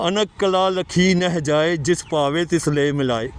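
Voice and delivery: slow, careful scripture recitation, every syllable clear. Shown as a demonstration. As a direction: recite each word slowly and clearly. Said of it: "ਉੱਥੇ ਲਿਖਿਆ".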